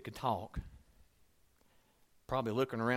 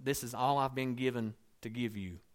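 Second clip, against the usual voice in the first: begging. Retold or imitated. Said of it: "I will be begging people".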